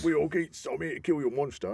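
put-on lightly done East End London accent. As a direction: quote the hero in a Cockney accent. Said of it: "there you've got the East End accent".

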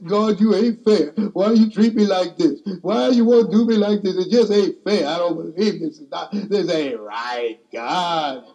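mild retold wail at God for being unfair; tearful complaint to God. Preacher retelling crying out to God, tearful plea. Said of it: "I'm all upset and crying".

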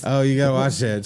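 normal talking voice

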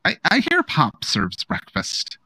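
high, flustered aunt voice; squealing baby talk aunt. Acted.

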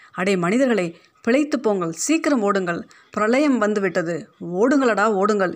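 a touch of panic, calling out; panicked shouting. Acted. Ant warning the men of a flood, mildly panicked. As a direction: urge them to run, lightly alarmed. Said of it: "என்று அலறியவாறு".

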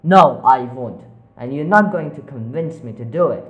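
loud, defiant refusal; shouting. Acted. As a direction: refuse them loudly. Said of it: "shouted at them".

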